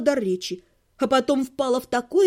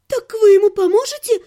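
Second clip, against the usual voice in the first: trembling voice; 7 semitones higher, 7 dB louder than usual. Acted. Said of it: "дрожащим голосом".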